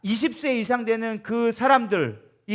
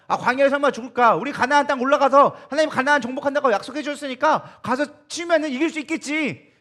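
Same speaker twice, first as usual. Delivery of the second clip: raised, loud voice of cocky self-assurance; higher, eager acted bravado; mock overconfidence; 5 semitones higher, 4 dB louder than usual. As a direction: imitate people talking themselves into victory. Voices Israelites' overconfident reasoning.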